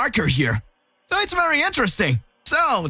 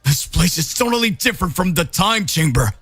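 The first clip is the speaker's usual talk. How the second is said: frustrated trapped hero; 4 semitones higher than usual. Acted. Goku trapped and furious.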